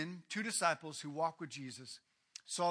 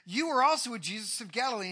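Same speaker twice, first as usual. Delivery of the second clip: put-on teenage girl; 3 semitones higher, 5 dB louder, faster than usual. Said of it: "a little servant girl, a teenager".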